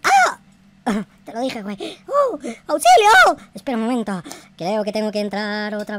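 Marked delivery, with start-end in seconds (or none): 0.0-0.4 very high, loud shriek; loud short shriek; frightened scream. Real, not acted. Sudden scare. 2.1-3.4 high, loud shout; loud panicked help cry. Real, not acted. Calling for help.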